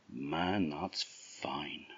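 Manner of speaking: breathy murmur under the breath; hushed to himself. A narrator's reading. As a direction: whisper it to yourself, pleased. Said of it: "just say to himself".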